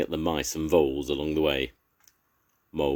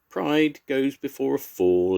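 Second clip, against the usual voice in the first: slow, high disapproving owl; wise owl voice; 10 semitones higher, 6 dB louder than usual. A narrator's reading. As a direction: lecture them gravely and slowly.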